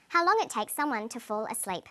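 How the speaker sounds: last list item, pitch falling away on "asleep"; falling intonation. Shown as a demonstration. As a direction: end the list with a drop on "asleep". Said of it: "She uses falling intonation".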